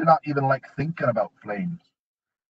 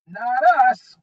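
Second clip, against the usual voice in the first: smug goblin; 11 semitones higher, 6 dB louder than usual. A narrator's reading.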